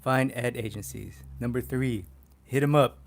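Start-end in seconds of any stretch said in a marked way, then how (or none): 2.4-3.0 emphatic command. Real, not acted. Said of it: "emphatic list step".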